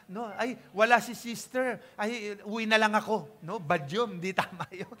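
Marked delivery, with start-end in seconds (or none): 0.4-3.4 disappointed churchgoer. Retold or imitated. Churchgoer disappointed crush absent.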